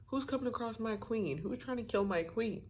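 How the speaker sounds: high, startled questions; shocked husband demanding who threatens his queen; the king stunned that someone would harm his queen; alarmed king. Retold or imitated. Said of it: "And he's like".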